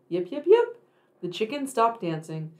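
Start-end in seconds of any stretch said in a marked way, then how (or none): 0.1-0.8 high, loud yipping fox call. Acted. Little fox on the hill calling out loud and high. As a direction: yip it out high like a fox pup. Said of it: "She called".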